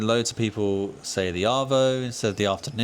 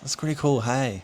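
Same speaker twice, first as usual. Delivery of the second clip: higher mock Aussie "that's really cool, hey"; echoing Cass's Aussie hey; 6 semitones higher than usual. Echoing the housemate's Aussie hey. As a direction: pitch it up, tag on an Aussie hey. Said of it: "she'd just be like".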